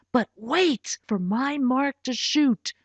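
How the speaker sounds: slow, leaning on "wait"; "wait" held firm and slow; stress on wait. Acted. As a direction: make "wait" the word that matters. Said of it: "He stressed the word wait".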